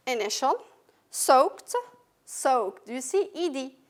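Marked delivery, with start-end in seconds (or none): 1.1-2.9 "soaked" ending in a crisp T sound; final ED as T. Shown as a demonstration. Teacher models the cluster for the class, "soaked" ending K-T. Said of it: "But it's pronounced T".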